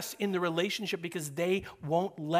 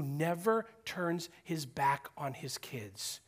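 whisper; 4 semitones lower, 5 dB quieter, slower than usual. Real, not acted. Preacher to the congregation, slow tender whisper. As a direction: drop to a slow whisper on the promise. Tender point about God as parent.

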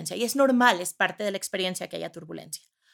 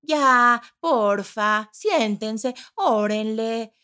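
higher, pleading half-hearted captain; pleading passive pilot; 6 semitones higher, slower than usual. Pretend. Passive pilot begging passengers over the speaker. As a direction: beg them to sit, weakly. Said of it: "tienes al piloto diciéndote".

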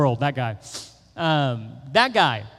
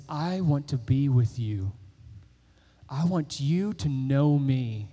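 tender voice of God; 5 semitones lower, 4 dB quieter than usual. Acted. God's tender invitation to listeners.

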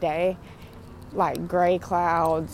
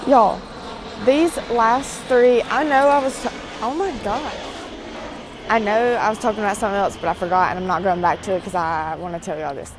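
raised voice; 3 semitones higher, 7 dB louder, faster than usual. Real, not acted. Telling listeners over a passing airplane, raised voice. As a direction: speak up forcefully over the noise.

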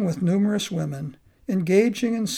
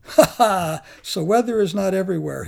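laughs, then rattles it off quickly; a playful win in a laughing voice; 4 dB louder than usual. Acted. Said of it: "he laughed".

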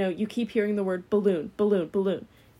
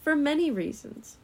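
solemn narrator voice, slightly higher; nature documentary; 6 semitones higher than usual. Acted. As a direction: narrate it like a wildlife film. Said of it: "You sound like you're in a nature documentary".

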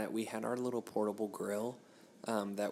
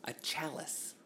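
whispered guess; 5 semitones higher, 5 dB quieter, slower than usual. Real, not acted. Guessing the word.

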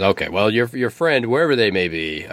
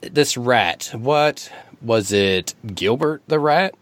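eagle voice; 4 semitones higher, much slower than usual. Acted.

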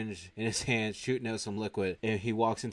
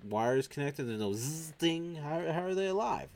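incredulous questioning; 6 semitones higher than usual. Retold or imitated. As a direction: act out baffled disbelief, rising higher. Acted disbelief at living brains.

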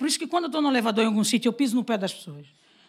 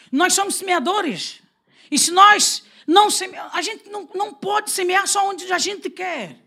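slow, raised preaching voice; 7 semitones higher, 5 dB louder, slower than usual. Real, not acted. Preacher urging the congregation to sow everywhere, raised and slow. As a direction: press the point slowly to the church.

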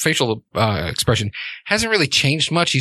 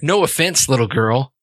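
sarcastic. Acted. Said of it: "she says sarcastically".

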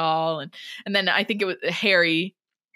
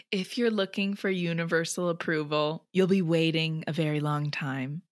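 earnest reread; 3 dB quieter than usual. Shown as a demonstration. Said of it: "Can you say it again".

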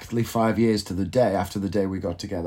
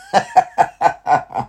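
loud, high cackle in quick bursts; real laugh; 6 semitones higher, 5 dB louder than usual. Real, not acted. Laughs at end of absurd scenario.

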